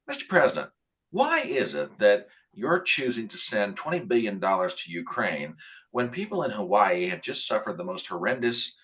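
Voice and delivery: a measured reporter's question, firm but calm. Shown as a demonstration. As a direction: ask it steady and firm without raising the voice. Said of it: "I said that in a completely calm voice".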